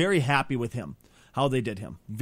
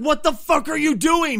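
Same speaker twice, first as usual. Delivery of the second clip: outraged; 12 semitones higher, 4 dB louder than usual. Retold or imitated. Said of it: "I was like".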